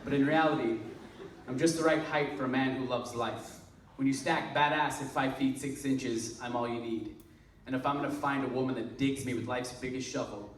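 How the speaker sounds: understated spoken-word delivery after the outburst; poetry recitation. Acted. Returns to reciting the poem.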